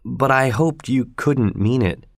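slow, a touch of misery; miserable. Acted. Pip answering Estella, lightly miserable and slow. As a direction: say it slowly, hope already gone. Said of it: "I said miserably".

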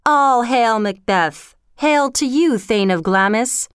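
slow, ringing witch's cry of greeting; first witch hailing Macbeth across the moor, slow and ringing; loud cry. Acted. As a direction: call it out slowly like an omen. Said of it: "cried out in a loud voice".

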